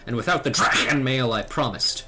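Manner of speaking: a measured, grave mentor giving a warning; lightly voiced stern elder knight; solemn old knight. Old knight warning the young dragoon, grave and measured. Reading Sir Alberic's quest dialogue.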